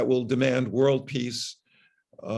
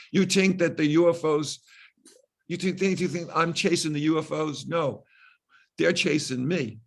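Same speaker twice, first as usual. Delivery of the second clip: put-on New York accent; 3 semitones higher than usual. Doctor kidding the ER nurses back, in a jokey New York accent. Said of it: "with my best New York accent".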